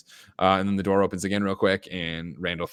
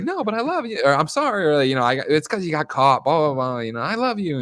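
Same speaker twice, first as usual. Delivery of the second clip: pleading quote; 8 semitones higher, 5 dB louder than usual. Retold or imitated. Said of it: "And it's like".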